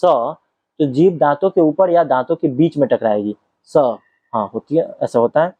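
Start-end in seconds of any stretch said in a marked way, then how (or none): 3.6-3.8 "स" said as a crisp dental s, tongue at the teeth; a short dental "स" on its own. Shown as a demonstration. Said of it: "जब आप बोलेंगे स".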